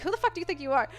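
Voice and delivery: laughing mock challenge. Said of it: "I was like".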